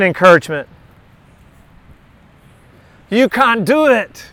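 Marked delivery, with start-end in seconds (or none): 3.1-4.3 slow, put-on accent on You can do it; with a little accent. Shown as a demonstration. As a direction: lean into a light accent, drawn out. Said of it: "Say it with a little accent".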